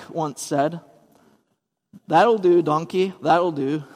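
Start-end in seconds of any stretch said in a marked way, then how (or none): 2.1-3.8 light mock Scottish accent, Shrek-style; a quick, half-hearted Scottish Shrek line; Shrek's Scottish accent. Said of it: "I don't know if that was a good Scottish accent".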